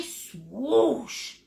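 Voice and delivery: drawn-out "swoosh" like a brushstroke; swoosh noise. Shown as a demonstration. Painting teacher urging students to join in, swoosh noise. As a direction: stretch the word into a whoosh. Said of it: "Make that noise".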